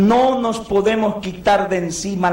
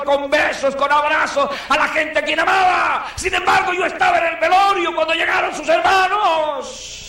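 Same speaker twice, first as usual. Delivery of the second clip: fervent testimony; 6 semitones higher than usual. Retold or imitated. The grateful son telling the pastor, building to a shout. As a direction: build it up to a near shout of joy. Son exults in being useful.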